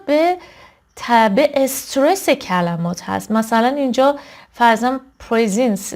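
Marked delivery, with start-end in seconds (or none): 5.2-5.9 پرزنس stressed on PREZ; پرزنس as PREZ-ens; first-syllable stress. Shown as a demonstration.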